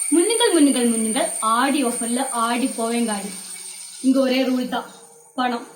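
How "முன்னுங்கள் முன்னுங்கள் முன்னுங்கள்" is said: lightly voiced sale announcer; a hint of an ad-man's urgent call; advertising hawker. Mocking the discount ads that surround shoppers, advertising hawker.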